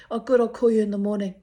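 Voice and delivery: eager mock promise. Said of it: "used to say".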